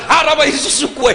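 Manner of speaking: mother's threat. Retold or imitated. Mother threatening her son, loud mock anger. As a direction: hurl the curse like a fed-up mother. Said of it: "Langsung dia bilang".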